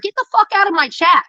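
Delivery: telling him off, fired up; angry. Real, not acted. Angry rant at former friend.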